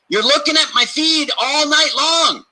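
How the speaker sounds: high, slow teasing sing-song; mock accusing tease. Playfully scolding night-time scrollers in a high voice. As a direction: tease them like a nosy app. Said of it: "we can see".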